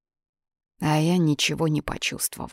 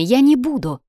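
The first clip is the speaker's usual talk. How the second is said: loud, high-pitched defiance; heated, raised-pitch protest; defiant refusal; 8 semitones higher, 5 dB louder than usual. Acted. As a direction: dig in and refuse emphatically. Sonya refuses to obey him.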